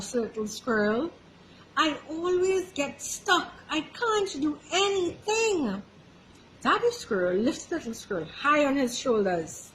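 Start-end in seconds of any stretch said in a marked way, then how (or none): 1.7-5.8 sad. Acted. Little squirrel gives up sadly.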